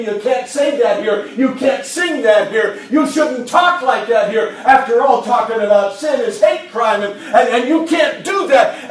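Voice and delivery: loud mocking scold; hammed-up disapproving voices; scolding critics, mock. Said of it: "They want to tell you".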